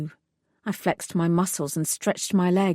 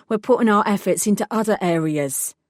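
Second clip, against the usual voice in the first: gruff woman; 3 dB louder than usual. Acted. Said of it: "a gruff female voice".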